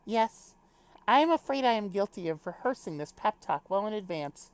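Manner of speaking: formal, lightly British admission; little British accent. Acted. Character admits rehearsing the send-off, lightly British formal voice. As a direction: confess it politely with a hint of British. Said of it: "do a little British accent".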